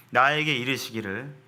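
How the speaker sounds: ordinary talk, nothing marked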